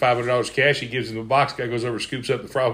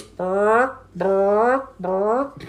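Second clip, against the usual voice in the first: high squawky chicken "Bark"; 10 semitones higher, much slower than usual. Acted. Chicken squawking "Bark" at the librarian. Chicken barks three times.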